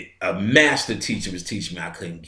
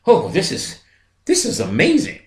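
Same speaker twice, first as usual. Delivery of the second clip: mock delight; 8 semitones higher than usual.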